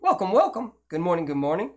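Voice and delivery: upbeat doubled-up welcome, bright TV-host energy; Ridge Life impression. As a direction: sell it like a cheerful host who says everything twice. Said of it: "I can do him pretty good".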